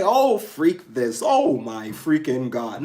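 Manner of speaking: slow, prim mock voice; mock censored cussing. Mocking viewers who want her to stop cussing, slow and prim. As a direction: play a prissy censor, drawn out. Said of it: "What you want me to say?".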